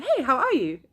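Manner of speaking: big, hearty Italian-style hello; loud Italian greeting. Retold or imitated. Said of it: "they're just going".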